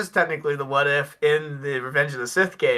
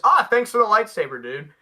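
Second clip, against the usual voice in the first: mock villain voice; 5 semitones higher than usual. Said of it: "I'll reenact it".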